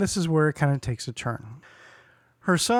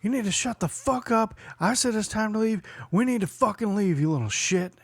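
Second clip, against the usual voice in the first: higher, harsh imitation of a scolding; mock angry mom; 6 semitones higher than usual. Imitating the drunk mom cursing at her son. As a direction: spit it out like a drunk mother. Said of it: "she's like".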